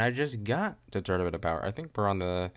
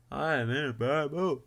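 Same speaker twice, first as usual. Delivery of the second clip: put-on moan; 7 semitones higher than usual. Repeats it in put-on voice.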